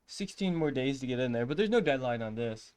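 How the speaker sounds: loud, sarcastic reassurance. Real, not acted. Sarcastic joke about deadline.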